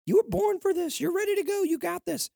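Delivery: fired-up pep talk to yourself; pumped-up pep talk. Shown as a demonstration. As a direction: hype yourself up like a coach before the big game. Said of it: "I'm building myself up. I'm saying".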